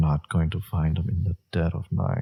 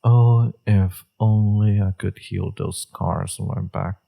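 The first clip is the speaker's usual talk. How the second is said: mock lament; 4 dB louder than usual. Mock lament about own scars.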